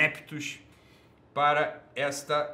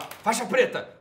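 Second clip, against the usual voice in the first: "faixa preta" said higher, set apart; stressed example word; 7 semitones higher, 4 dB louder, slower than usual. Shown as a demonstration. Host giving example words, "faixa preta" set apart higher. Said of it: "Se eu falar".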